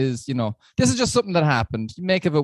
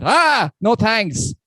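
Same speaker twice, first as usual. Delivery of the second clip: slow polite refusal; 6 semitones higher, much slower than usual. Retold or imitated. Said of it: "and I went".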